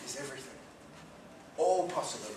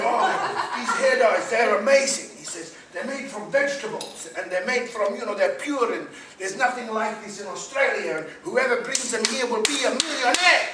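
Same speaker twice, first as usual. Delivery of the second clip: hairdresser's mock Spanish accent, higher and louder; a lightly done Spanish accent, up and loud with a laugh; 9 semitones higher, 12 dB louder than usual. Spanish hairdresser selling hair dyes, mock Spanish accent. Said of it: "I can't do a Spanish accent".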